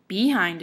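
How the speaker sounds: "Behind" as BE-hind; BE-hind, second syllable falling away; stress on first syllable. Shown as a demonstration. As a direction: lean on the "Be" of "Behind". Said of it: "if we stressed be instead of hind".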